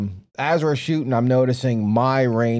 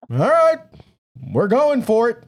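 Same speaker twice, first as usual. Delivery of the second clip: higher, louder, laughing through the words; laughing quote; 10 semitones higher, 4 dB louder than usual. Retold or imitated. Retelling the bear target shot, laughing. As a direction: laugh it out like a reckless dare. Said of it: "And I'm like".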